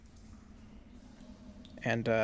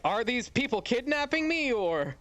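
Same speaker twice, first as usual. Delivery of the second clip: high-pitched puzzled question; really confused; 9 semitones higher than usual. Acted. Captive asking if these people are kidnapping her, confused. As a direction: pitch it up high, unsure what is happening. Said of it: "she's really confused. She's like".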